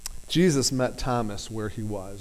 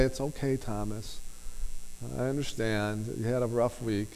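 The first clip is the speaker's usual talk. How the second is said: soothing pat on the head; 6 dB quieter than usual. Pretend. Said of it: "a nice pat on the head".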